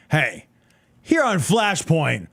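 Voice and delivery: lightly voiced earnest TV host, laughing by the end; mock host voice. Mocking the Flashpoint host's intro to his cohost, laughing. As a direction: parody the host's self-important intro with a laugh. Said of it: "how he prefaces this with".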